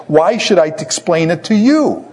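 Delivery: lightly acted dismissive husband; mock indignant retort. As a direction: throw the question back, affronted. Samson retorts to crying wife.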